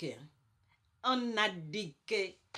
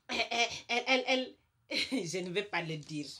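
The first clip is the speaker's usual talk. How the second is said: laughing; 2 semitones higher, faster than usual. Real, not acted. Hésite, rit de ce qu'elle tait.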